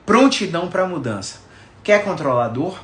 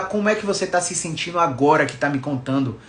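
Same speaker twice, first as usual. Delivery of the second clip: caring therapist tone. Shown as a demonstration. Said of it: "a entonação da minha voz mudou falando isso".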